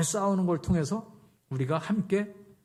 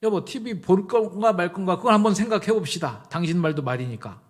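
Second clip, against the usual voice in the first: firm proposal; 4 semitones higher, 6 dB louder than usual. Shown as a demonstration. Demonstrates wife arguing with her husband.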